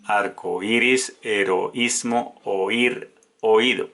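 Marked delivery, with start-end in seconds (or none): 0.0-2.4 arco iris, heroísmo read slowly with each vowel apart; teacher stretches heroísmo so the í stands alone; careful hiatus reading. Shown as a demonstration. Teacher showing students the hiatus, slow and careful. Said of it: "Con la combinación O I".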